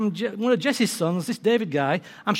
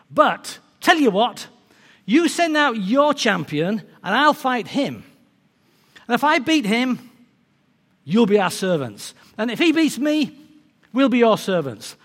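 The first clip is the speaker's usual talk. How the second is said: raised, measured challenge called across; shouted challenge; 3 semitones higher, 4 dB louder than usual. Retold or imitated. Giant sets terms for the enemy army, mildly shouted challenge. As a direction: keep calling out the giant's terms. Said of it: "shout across and say".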